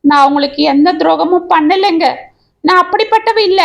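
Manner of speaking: mild tearful pleading; wailing. Acted. Wife begging her husband to believe her, mildly tearful. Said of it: "என்று கதறினாள்".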